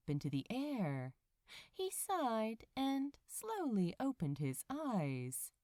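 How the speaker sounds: a lightly read bedtime-story voice; story narration. A narrator's reading. Reader telling listeners a cozy morning tale, story narration. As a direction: tell it gently, like a cozy fairy tale. Reads the fic aloud.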